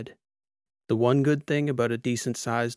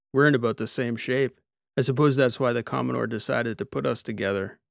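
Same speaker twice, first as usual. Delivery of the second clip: cyborg Soch. Acted. Soch telling Lita the captain is out, brisk cyborg voice. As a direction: answer like an easygoing mechanic cyborg.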